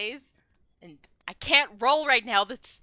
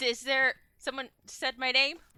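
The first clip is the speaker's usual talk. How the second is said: usual speaking voice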